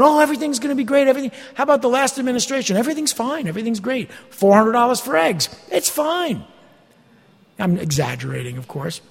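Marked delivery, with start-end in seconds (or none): 0.0-6.4 high, fast breezy reassurance; lightly hammed-up cheerful prophet; mocking false prophet. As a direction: brush it off like a smug pundit. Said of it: "the next minute".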